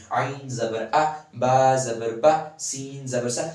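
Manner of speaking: slow drill with "آ", "با", "سا" stopped as soon as voiced; short zabar vowels. Shown as a demonstration. Teacher recapping short vowels for students. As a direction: sound out "با زبر با" slowly, the "با" cut off at once. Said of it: "بس وہیں پہ آپ کی آواز ... ختم ہو جائے گی".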